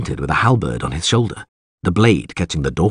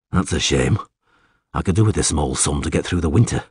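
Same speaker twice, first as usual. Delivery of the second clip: low, mildly disappointed voice; understated witcher; 5 semitones lower than usual. Acted. Witcher losing his fee, understated.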